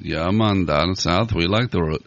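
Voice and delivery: lightly put-on Southern accent; a hint of down-south twang. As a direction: play a laid-back Southerner. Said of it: "That is not the English British language".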